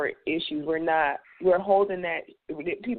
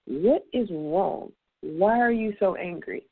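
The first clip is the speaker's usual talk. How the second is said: calm concerned question; slower than usual. Retold or imitated. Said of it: "and I simply ask them".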